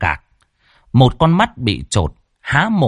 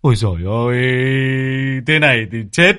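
wailing lament; 5 semitones higher than usual. Acted. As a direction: cry out in anguish, rising to the end. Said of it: "Ông Cạc rú lên".

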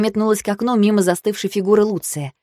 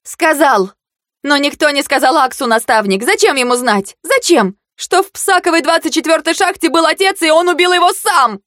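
higher and louder throughout; furious shout; 8 semitones higher, 4 dB louder than usual. Acted. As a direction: hurl the truth at him. Shouting accusations at mentor.

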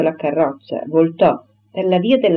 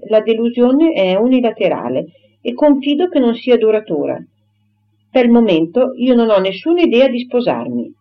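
higher, emphatic voice of an affronted heroine; indignant Emma; 4 semitones higher than usual. Acted. Emma rejects the suitor's talk of encouragement, indignant and firm. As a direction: refuse him firmly, with contained indignation.

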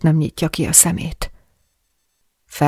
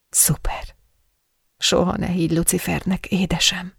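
soft whisper; 5 dB quieter than usual. Acted. Intimate teasing whisper to partner.

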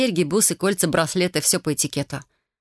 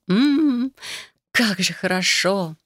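drawn-out pleased sigh; blissful moan; 2 semitones higher, much slower than usual. Acted. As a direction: melt into hot water. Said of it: "блаженно застонала".

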